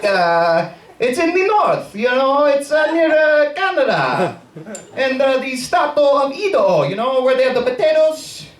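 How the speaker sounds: put-on high-pitched, phony Italian accent; bogus Italian accent. Waiter faking a hometown for customers, bogus Italian accent. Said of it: "in the bogus Italian accent".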